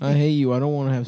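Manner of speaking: loud playful fake rejection; mock yelling. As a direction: shout it as a joke. Mocking joke reply.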